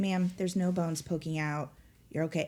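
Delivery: ordinary talk, nothing marked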